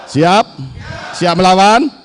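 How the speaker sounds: rally shout. Real, not acted. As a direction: shout it out to the crowd. Call to crowd, louder.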